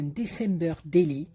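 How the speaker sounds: English words in a Marseille French accent. Real, not acted. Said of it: "Vous avez vu mon accent?".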